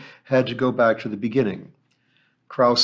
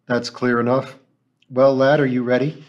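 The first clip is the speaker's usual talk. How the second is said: gruff; 5 dB louder than usual. Acted. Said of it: "he said gruffly".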